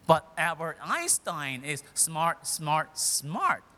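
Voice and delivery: slow "smart, smart, smart", each one set apart; tripled emphasis. Shown as a demonstration. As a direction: punch out every "smart" separately. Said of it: "degrees of smartness based on the number of times".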